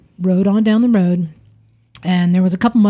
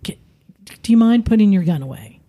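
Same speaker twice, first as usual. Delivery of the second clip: calm talking; faster than usual. Retold or imitated. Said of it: "talking to him calmly like this".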